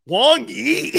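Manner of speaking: high, loud, laughing disbelief; incredulous laugh. Retold or imitated. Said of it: "I go".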